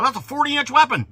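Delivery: high, loud mocking quote; loud sneering imitation. Mocking everybody's claim.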